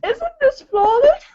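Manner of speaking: high, badly faked British accent. Shown as a demonstration. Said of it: "That was a horrible British accent".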